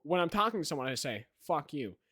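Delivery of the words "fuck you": unserious, matter-of-fact delivery; basic sarcastic tone. Shown as a demonstration. Showing a friend how the online voice defuses an insult, casually sarcastic. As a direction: toss it off without real bite. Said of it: "in the most basic tone. You can't take it seriously".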